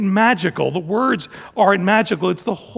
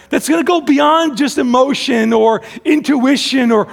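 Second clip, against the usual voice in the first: pleading prayer; 4 semitones higher than usual. Retold or imitated. Pastor voicing his own plea to God, higher and pleading. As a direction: pray it out as a yearning appeal. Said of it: "I felt like that at times".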